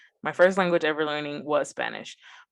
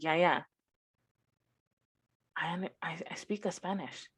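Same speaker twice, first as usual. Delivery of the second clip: lightly imitating herself; 9 dB quieter than usual. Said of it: "The way you just said that".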